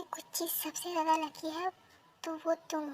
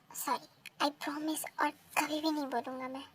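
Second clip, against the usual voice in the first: meek apology; 2 semitones lower than usual. Acted.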